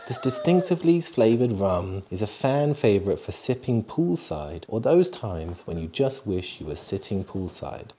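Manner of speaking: measured ad-copy read. Acted. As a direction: read the bottle blurb as a slow promo. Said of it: "I like your, uh, your reading voice".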